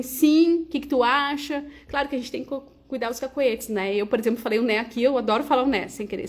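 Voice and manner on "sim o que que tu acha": lively tone shift. Shown as a demonstration. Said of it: "falar assim".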